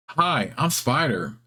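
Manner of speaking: slow, glum spider greeting; a slightly glum spider. Acted. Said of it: "It sounds glum".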